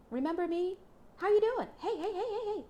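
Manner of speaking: high, loud, teasing greeting with a laugh; the returning lover teases the listener, flirty and giggling. Pretend. Playful high flirt with a laugh.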